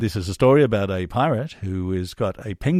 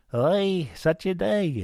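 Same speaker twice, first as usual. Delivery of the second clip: put-on mild Jewish accent; 9 semitones higher, much slower than usual. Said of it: "a Jewish penguin".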